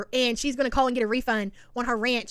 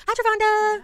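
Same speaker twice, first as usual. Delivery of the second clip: Canadian accent; 10 semitones higher, slower than usual. Real, not acted. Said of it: "It's my, it's my Canadian accent".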